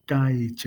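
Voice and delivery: "kaij" with a J closing the word; teacher's model "kaij"; final J shown. Shown as a demonstration. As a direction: repeat "kaij" carefully for the learner, J at the end. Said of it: "kaij with a J at the end".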